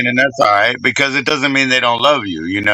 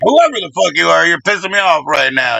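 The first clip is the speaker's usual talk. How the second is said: imitating a fed-up mom, starting higher; mock exasperated scolding; upset, flustered mother; 3 semitones higher than usual. Son imitating his mother giving up on names, flustered and upset. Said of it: "she'd be upset and flustered".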